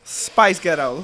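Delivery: slow, careful attempt at a Scottish accent; mock Scottish accent. Shown as a demonstration. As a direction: draw out "Spice Ghetto" as a Scot. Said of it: "how Scottish people sound".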